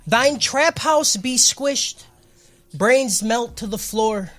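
mock King James preacher; hammed-up solemn sermon voice; booming biblical narration. Mock sermon for four twenty.

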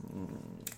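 a quick kiss into the mic; soft smooching kiss; kiss sound. Real, not acted. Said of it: "they can hear me kiss you".

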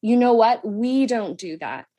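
even, patient reminder; gently firm parent voice; calm and gentle. Shown as a demonstration. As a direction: correct a child kindly. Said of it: "say it in a way of".

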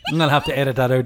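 high helpless laughter; crying with laughter. Real, not acted. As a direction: laugh till you cry.

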